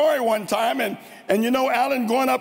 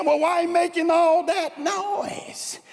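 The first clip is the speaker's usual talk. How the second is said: Clem's puzzled voice; 7 semitones higher than usual. Retold or imitated. Clem voiced in a folk tale.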